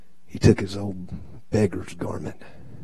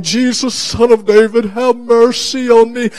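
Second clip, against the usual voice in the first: loud, high plea shouted over a crowd; crying out; 13 semitones higher, 8 dB louder than usual. Acted. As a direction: call out urgently as the blind beggar. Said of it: "and he's crying".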